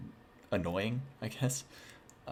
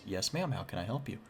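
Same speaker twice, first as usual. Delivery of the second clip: lightly done, overly polite clerk; a hint of a shop assistant greeting a customer; mildly sweet service voice; 5 dB quieter than usual. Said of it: "gave her my best customer service voice".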